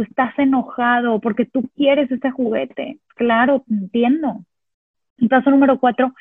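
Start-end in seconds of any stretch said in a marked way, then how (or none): 0.0-4.4 slow, gentle acknowledgement of the anger; calmly name the child's feeling; soft validating. Shown as a demonstration. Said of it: "Solamente estamos validando". (validación suave y pausada)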